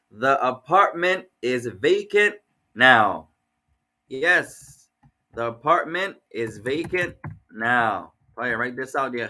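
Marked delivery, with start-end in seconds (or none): 0.1-3.3 1 slow. Shown as a demonstration. 5.3-8.1 1 slow again. Shown as a demonstration.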